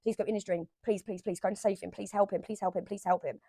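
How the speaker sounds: quiet, hushed prayer-like begging; soft pleading. Retold or imitated. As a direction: murmur a soft plea for help. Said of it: "I was like".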